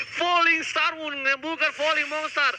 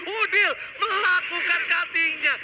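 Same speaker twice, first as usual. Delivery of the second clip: fighting game announcer; 4 semitones higher than usual. Real, not acted. Caster calls triple kill, hype.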